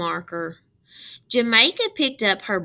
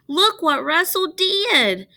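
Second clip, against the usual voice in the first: upset showing; 10 semitones higher, 7 dB louder than usual. A narrator's reading. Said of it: "Jamaica showed her father".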